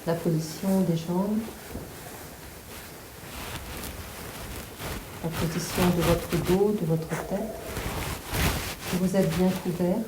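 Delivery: calm, measured relaxation guidance; guided meditation. Real, not acted. Yoga teacher settling listeners on the floor, guided meditation. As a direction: settle them gently, with long pauses.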